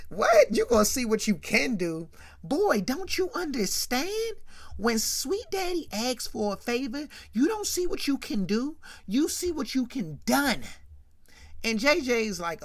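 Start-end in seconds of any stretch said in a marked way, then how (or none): 0.1-10.6 high, hammed-up scoffing after a laugh; mock him as the big boss laughing at a fool; laughing scorn. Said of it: "Sweet Daddy starts laughing".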